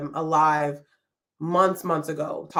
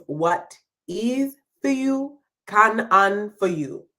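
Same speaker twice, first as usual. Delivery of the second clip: slow Jamaican patois, first phrase lifted higher; 3 semitones higher, 3 dB louder, slower than usual. Shown as a demonstration. Host quoting the proverb to viewers in Jamaican patois. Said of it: "I'm gonna say it in Jamaican".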